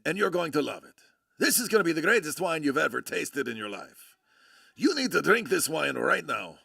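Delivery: lightly put-on Italian accent. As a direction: imitate an Italian friend's accent, falling away through each phrase. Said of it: "in his, in his Italian accent".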